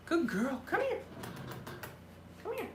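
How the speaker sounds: high coaxing pet voice; coaxing the cat. Real, not acted. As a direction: coax her over sweetly.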